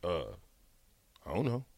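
lightly voiced, low, unbothered mumble; a hint of a laid-back friend; Jay Foreman impression. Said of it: "my Jay Foreman impression".

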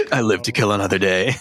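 anime villain. Acted. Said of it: "like an anime villain".

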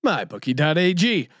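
brisk, punchy podcast ad read; sponsor ad read. Acted. Host plugging the show's sponsors, ad read.

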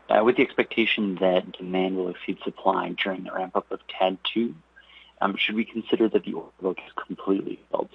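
audio dropping out on a bad line; words chopped off by a breaking connection; cut off suddenly. Real, not acted. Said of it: "you cut out a little bit there".

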